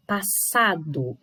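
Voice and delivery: "Passado" with SA brought out; stress on SA. Shown as a demonstration. Teacher confirming the tonic syllable, stressed SA. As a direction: lean on the middle syllable of "Passado". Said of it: "aparece mais forte".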